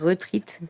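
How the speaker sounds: "retreat" said with a long ee, French accent; "retreat" as French-accented English, ruh-TREET; English pronunciation attempt. Real, not acted. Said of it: "Moi et mon accent, euh, anglais".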